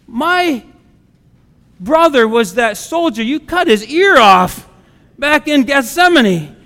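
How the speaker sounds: indignant accusation. Retold or imitated. Soldier's relative accuses Peter, acted.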